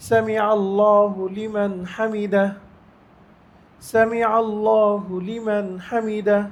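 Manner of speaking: slow, even Arabic recitation; recitation demo. Shown as a demonstration. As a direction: recite it evenly, no rush. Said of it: "স্বাভাবিক বলতে হবে". (ধীরে স্বাভাবিক তিলাওয়াত)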